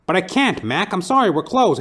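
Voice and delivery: a lightly voiced scared short-order cook; nervous cook. Cook answers in retold film.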